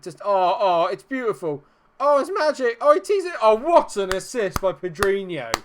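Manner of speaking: loud, high, thrilled praise; over-the-moon football fan; rapturous excitement. Real, not acted. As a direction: gush over the pass like it's magic.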